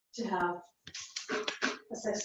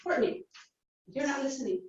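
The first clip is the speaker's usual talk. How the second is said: calling out; 4 semitones higher, 5 dB quieter than usual. Shown as a demonstration. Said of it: "Say her name".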